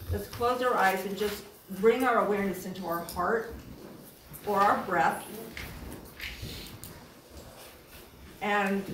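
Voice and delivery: calm guiding voice with long pauses; guided meditation. Real, not acted. Leading a group to close eyes and find breath, guided meditation. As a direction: lead them gently inward, leaving space between phrases. Leads a grounding exercise.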